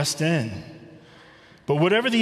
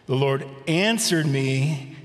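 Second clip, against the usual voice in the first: slow scripture reading; slower than usual. Shown as a demonstration. Pastor reading the key verse to the congregation, slow and solemn. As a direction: read the verse slow and deliberate, weighing each word.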